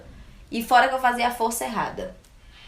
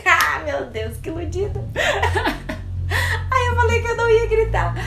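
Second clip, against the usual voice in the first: high, loud laughing cry; real laughter cracking the voice, high and loud; laughing through tears; 11 semitones higher, 4 dB louder than usual. Real, not acted. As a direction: laugh at yourself until it almost breaks into tears. Laughing at herself, near tears.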